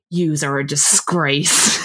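slow, low mock reprimand; stern scolding. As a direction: draw it out like a scolding guard. Acting out the guard's scolding.

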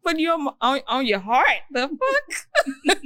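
high, half-laughing disbelief; incredulous. Retold or imitated. Recounting ex's excuse to co-host, high laughing disbelief. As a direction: scoff at the absurd excuse. Mocking the caller's line.

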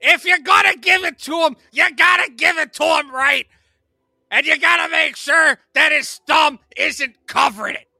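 loud, high, shouting cartoon parrot; Gilbert Gottfried as Iago. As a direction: yell it like a screechy parrot. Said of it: "Gilbert Gottfried doing Iago".

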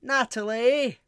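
high, loud sing-song thanks; excited roll call. Acted. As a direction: call each name like a gameshow host.

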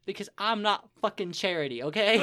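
loud, indignant outburst; angry. Retold or imitated. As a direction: snap at freeloading guests. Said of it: "So I was like".

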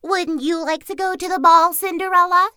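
high, sing-song teasing; mocking tease. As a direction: poke fun at the servant girl. Stepsisters tease Cinderella.

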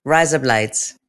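Aussie vowels on request; Australian accent. Shown as a demonstration. Co-host asked to say it again, Australian accent. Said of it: "Australian accent. Can you say it again".

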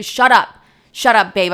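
loud retold shut-down; re-enacted exasperated outburst; angry cutting off. Acted row while storming out.

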